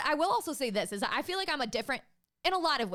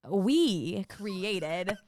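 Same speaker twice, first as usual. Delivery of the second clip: "We" drawn out and leaned on; stress on We; 3 dB louder than usual. Real, not acted. Conceding shared credit to the friend, pointed stress on "We". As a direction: pointedly stretch "We", then finish "created". Pointed correction after being challenged.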